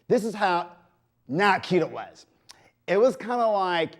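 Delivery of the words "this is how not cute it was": whisper. Shown as a demonstration. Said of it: "it's kinda like".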